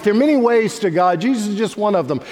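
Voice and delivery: quoting the culture in full preaching voice; preached quote. Retold or imitated. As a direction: hold the view up to knock it down. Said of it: "And people say".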